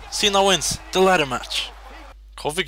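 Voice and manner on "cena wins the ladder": loud, high victory shout; triumphant yell; excited shout. Real, not acted. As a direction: cheer the win out loud. Winning the match in game.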